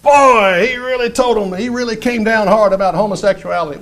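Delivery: a hint of a smug churchgoer bragging; imitating churchgoer. Preacher imitating a proud churchgoer, mildly smug. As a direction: lightly mimic a pleased congregant. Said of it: "I've heard this one sometimes".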